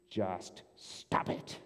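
slow, breathy, almost voiceless; whispered stop it. Acted. Pastor telling doubters to quit, whispered. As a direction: hush it out slowly. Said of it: "pastor applies it, whispered".

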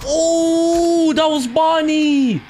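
high, loud frightened cry of surprise; shrieking after a sudden jumpscare; startled yelp. Real, not acted. Gamer startled by animatronic, a loud scared yelp.

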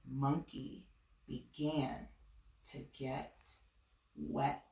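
suspenseful storybook hush. A narrator's reading. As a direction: let it sink to a near whisper. Suspense, fading softer.

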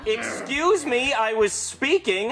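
slow, affronted; offended retort. Acted. Doctor scolding the family for interrupting, slow offended retort. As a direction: drag out the offense.

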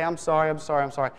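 quick, tossed-off repeated apology; glib apology. Retold or imitated. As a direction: imitate a child rattling off sorries. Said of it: "it's almost a little glib".

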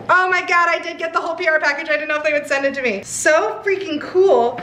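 high, fast thrilled gushing; excited. Real, not acted. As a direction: squeal with delight.

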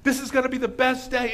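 high, elated celebration; so happy. Retold or imitated. Shepherd calling his friends to celebrate, overjoyed. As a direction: call everyone over in loud, imitated joy. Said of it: "And he's so happy".

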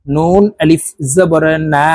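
না held long, one alif's length; one-alif madd. Shown as a demonstration. Teacher showing students the madd after নুন আলিফ, vowel stretched. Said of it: "এক আলিফ টেনে পড়ব".

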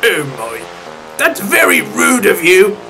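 offended. Acted. Richard rebuking Alfred for his outburst, offended. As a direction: rebuke him, taken aback.

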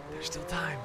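under the breath, softly; quiet voice. Shown as a demonstration. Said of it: "repeat in another voice".

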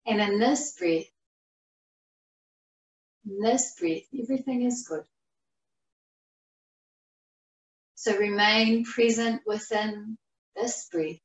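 measured phrases that settle downward; guided meditation. Acted. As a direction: guide them gently into the present, unhurried. Leads breath meditation.

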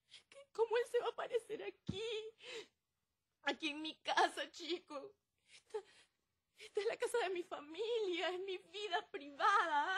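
tearful, breaking voice; crying. Acted. Hurt woman crying to her friend about an intruder, tearful. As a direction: choke back the sobs while protesting. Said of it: "no llores".

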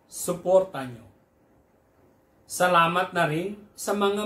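measured poem reading, phrase by phrase; earnest poetry reading; poem recitation. Acted. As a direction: recite it line by line with deliberate pauses. Reads translated poem aloud.

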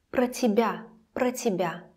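"Про тебя" with про reduced to "pruh"; short uh in про of "Про тебя"; reduced pro. Shown as a demonstration. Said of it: "it sounds like this".

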